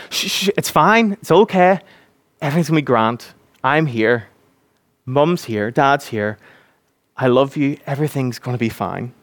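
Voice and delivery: soothing parent. Retold or imitated. Parent calming a hyperventilating child, lightly soothing. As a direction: hush a panicking child tenderly. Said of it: "the parent has to say".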